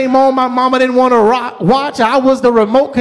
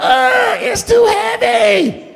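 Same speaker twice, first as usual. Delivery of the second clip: mock yelling, high-pitched screaming; 10 semitones higher than usual. Retelling a moment at home, the parent repeats the son yelling from another room: imitating son screaming. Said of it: "And he's screaming from the other room".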